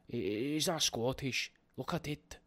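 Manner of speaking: hesitant, badly faked Scottish accent. Host checking his own attempt, doubtful Scottish accent. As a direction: try Scottish, slowly and unsure. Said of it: "Terrible at accents".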